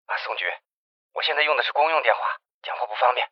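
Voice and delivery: quiet, hurried report over a phone line; hushed phone call. Acted. Investigator Jiang reports news to the chief by phone, hushed.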